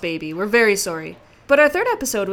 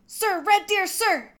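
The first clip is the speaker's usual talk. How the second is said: recruit shout; 7 semitones higher than usual. Acted. Recruit answering sergeant.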